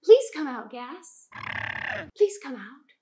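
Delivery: mock polite coaxing plea; asking nicely. Teacher politely coaxing the gas to come out. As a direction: coax the gas out sweetly. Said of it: "I ask the gas nicely".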